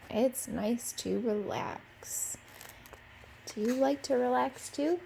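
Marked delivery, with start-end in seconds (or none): 0.1-2.4 slow, soft and contented; easy relaxed drawl; relaxed sigh. Acted. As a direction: let it out like sinking into a chair. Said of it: "he said".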